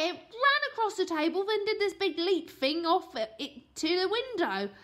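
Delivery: put-on high, loud kid voice, stumbling over the word; a boy groping for nutritious; cheeky boy voice. A narrator's reading. Boy inventing an excuse.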